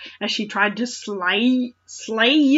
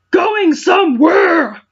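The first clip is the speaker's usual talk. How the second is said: slow, high, loud taunting shout; hammed-up villain taunt; 8 semitones higher, 7 dB louder, slower than usual. Meowth ambushing the fleeing hero, hammed-up slow taunting shout. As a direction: block his path with a sneering call.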